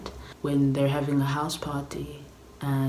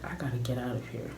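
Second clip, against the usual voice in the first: whispered urgency; 3 semitones lower, 7 dB quieter, faster than usual. Retold or imitated. Voicing Beatrice's thought.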